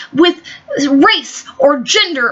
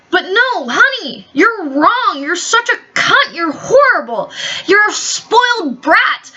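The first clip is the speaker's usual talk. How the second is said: condescending scolding; 4 semitones higher than usual. Retold or imitated. Telling off the spoiled woman.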